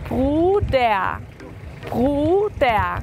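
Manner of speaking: Bruder ending in an a sound, no r; teacher demonstrating Bruder; German pronunciation. Shown as a demonstration. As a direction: Bruder said as bruda. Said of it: "la R al final se pronuncia como una A".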